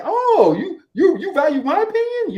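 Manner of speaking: high, loud mock flattered surprise; stroked ego. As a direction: gush as if hugely flattered, hammed-up. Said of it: "I stroked his ego 'cause now he's saying".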